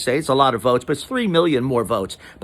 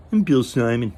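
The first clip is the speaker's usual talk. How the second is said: Bill Simon impression. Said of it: "But he really speaks like that".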